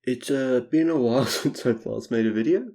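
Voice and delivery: stuffy blocked-nose nasal voice. Real, not acted. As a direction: talk through a stuffed-up nose. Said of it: "I'm sorry if I sound really nasally".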